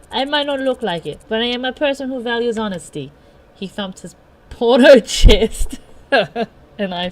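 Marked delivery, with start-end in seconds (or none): 0.1-3.1 lightly voiced, slightly lifted character; earnest John. John to Hana in front of her, earnest declaration. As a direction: declare it with a touch of solemn self-importance.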